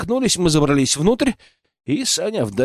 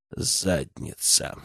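slow unvoiced whisper; 10 semitones lower, 10 dB quieter, much slower than usual. A narrator's reading. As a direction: whisper it grimly. Inner grim verdict.

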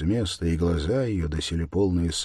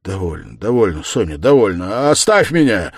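building from usual level to loud plea; anguished cry; 2 semitones higher, 10 dB louder than usual. A narrator's reading. Man begging Sonya to leave him, in convulsive anguish. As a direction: beg off, rising to a cry. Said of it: "вскричал он вдруг в судорожной тоске".

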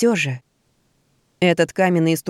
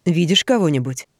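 orc voice. Acted. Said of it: "обратился к замыкающему".

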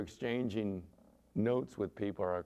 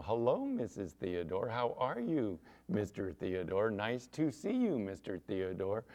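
lightly acted, lilting politeness; overly polite. Eddie greeting a friend's parents at the door, overly polite. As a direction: greet them like an ingratiating kid. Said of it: "they're just the politest thing".

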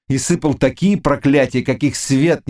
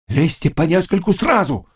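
higher shout of orders; old cossack shouting; 6 semitones higher than usual. A narrator's reading. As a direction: call out the order. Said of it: "закричал старый казак". (криком старого казака)

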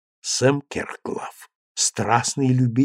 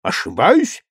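громкое изумлённое «Я?»; рявкнуть от обиды; рёв; 8 semitones higher, 6 dB louder, slower than usual. A narrator's reading. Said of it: "взревел герцог". (взреветь, громко)

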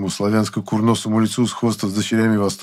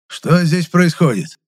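put-on stern old man; 8 semitones higher, 4 dB louder, slower than usual.

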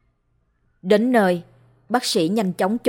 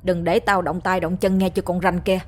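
snapping. Acted. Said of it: "Chú ta quát".

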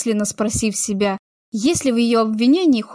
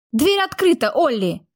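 irritated; 4 semitones higher than usual. A narrator's reading. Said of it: "раздался её раздражённый голос".

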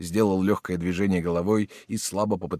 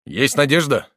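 a sudden hopeful cry; exclaimed question; 6 semitones higher, 8 dB louder than usual. A narrator's reading. Marshal Simon cries out to the doctor, hopeful. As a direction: burst out with the hope. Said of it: "воскликнул".

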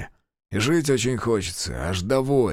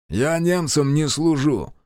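slow, higher retort; snapped back; 6 semitones higher, 3 dB louder, slower than usual. Acted. Savin snapping back at his interrogator, slow and higher. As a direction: bite back at the accusation. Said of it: "огрызнулся Савин".

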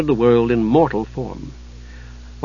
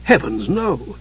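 appalled; slower than usual. Acted. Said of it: "Hidjukel was appalled".

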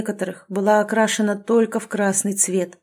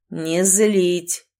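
growled. Acted. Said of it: "прорычали мне в ухо".

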